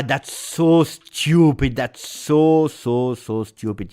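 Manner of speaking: slow, loud disgusted groan of a fan; exasperated. Real, not acted. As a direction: drag it out in frustration. Frustrated at teammate's foul.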